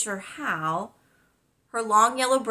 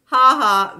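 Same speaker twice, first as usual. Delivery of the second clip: sarcastic ha ha; 6 semitones higher, 13 dB louder than usual. Acted. Boy mock-laughs at teasing.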